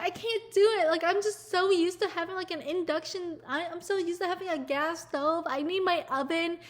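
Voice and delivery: plaintive, mocking whine; whiny mock complaint. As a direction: imitate a chef who can't cope. Mimicking complaining chefs.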